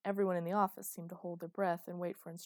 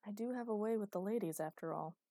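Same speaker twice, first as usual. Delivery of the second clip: deadpan; 3 semitones higher than usual. Acted. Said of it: "delivered deadpan".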